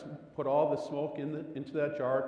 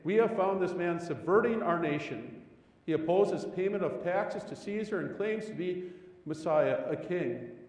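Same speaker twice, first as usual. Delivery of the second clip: accusing; 4 semitones higher, 5 dB louder than usual. Acted. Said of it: "they began to accuse him".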